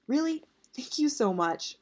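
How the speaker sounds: put-on high, eager girlish voice; a bright, grateful young voice, slow at the end; eager thanks. Yuri thanks Teddy eagerly.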